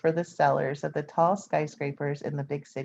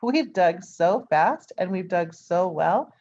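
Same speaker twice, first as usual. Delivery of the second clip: surprised; 7 semitones higher, 4 dB louder than usual. A narrator's reading. Mike realizes the mistake.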